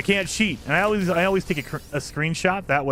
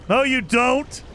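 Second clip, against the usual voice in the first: mock playful accusation; 7 semitones higher, slower than usual. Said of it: "teasing wife in retold exchange".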